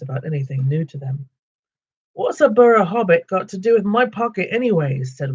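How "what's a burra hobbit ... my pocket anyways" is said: troll voice. Acted. Troll William suspicious.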